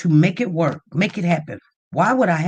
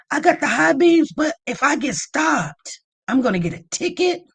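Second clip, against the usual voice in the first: higher worried reply; 7 semitones higher than usual. Retold or imitated. Answering mod, worried.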